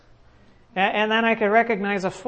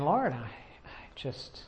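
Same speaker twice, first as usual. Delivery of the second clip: retold prayer. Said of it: "praying to the Lord and saying".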